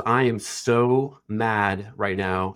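slow, weighty retelling of fury; retold tearful anger. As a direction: mildly mimic a furious woman, drawing out each word. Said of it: "this mad before where you start to cry".

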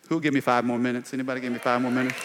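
fast auctioneer patter. Pretend. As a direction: rattle it off like an auctioneer. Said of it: "calling for bids on time".

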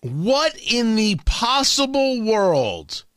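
very slow, drawn-out disbelief; slow, baffled emphasis; incredulous. Real, not acted. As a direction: draw the question out, word by word. Repeats baffled question, drawn out.

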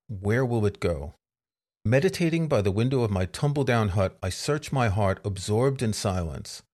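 measured, reflective poem recital; poem reading. Acted. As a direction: read it like an old Zen verse. Reads a Ryokan poem aloud.

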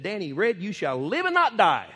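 loud declaration of faith; commanding prayer. Retold or imitated. Preacher commanding life over the sick man. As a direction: proclaim it boldly over him.

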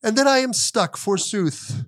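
slow, grand mock Shakespeare soliloquy; hammy stage actor. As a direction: declaim it like a ham actor on stage. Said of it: "A soliloquy from, like, a Hallmark character".

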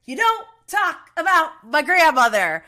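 loud, high-pitched imitation of an angry comeback; outraged retort. Retelling a TV feud to listeners, imitated outraged shout. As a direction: act out his furious outburst, punching out the words. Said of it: "Flagg just slaps him right across the face".

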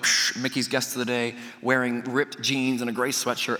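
low radio chatter with static hiss; imitated radio call. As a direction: mimic staff talking over a walkie-talkie. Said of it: "I hear over the, the radios".

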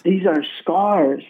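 retold doctor's words, drawn out slowly; slow, weighty reveal. Doctor revealing the healing to his patient, slow and weighty. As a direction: let each word land, slow and deliberate.

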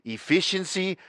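put-on deliberately terrible German accent, slow and stiff; mock German accent, slow and over-precise; bad German accent. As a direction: play a clumsy, hammed-up German efficiency robot in a German accent. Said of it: "the worst goddamn German accent of all time".

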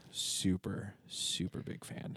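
through gritted teeth, slowly. Real, not acted. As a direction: squeeze super big fan through clenched teeth. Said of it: "Should I speak through gritted teeth again?".

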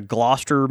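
"Gloucester" as GLOSS-ter; British pronunciation. Shown as a demonstration. Listing Southern towns, "Gloucester" the British way, GLOSS-ter. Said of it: "we don't say 'em like that".

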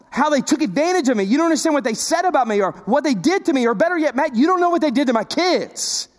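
a hint of a hurt congregant, pleading. A churchgoer tells Matt he doesn't understand, lightly pleading. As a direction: let the hurt person plead with the pastor. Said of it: "That, that's what you're thinking right now".

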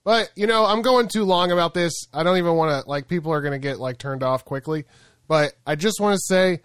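hyped crypto bro rallying cry. Pretend. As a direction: pump up the diamond hands crowd.

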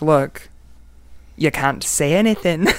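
put-on light Scottish accent as Nessie; a hint of a Scottish brogue. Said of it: "That's my Scottish accent".

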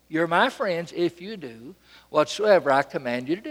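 matter-of-fact, unforced authority; rightful command. Retold or imitated. Jesus to his friends, an unforced rightful command. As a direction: say it evenly, as if naturally entitled. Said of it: "It just sounds right".

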